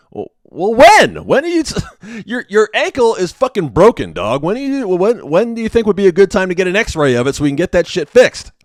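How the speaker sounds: fed-up tech pleading at the patient; mock exasperated, high-pitched demand; losing patience. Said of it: "I'm starting to lose patience".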